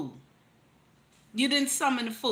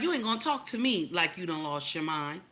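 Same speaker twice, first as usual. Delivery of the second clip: indignant fool; 7 semitones lower, 5 dB quieter than usual. Acted. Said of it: "the fool is like".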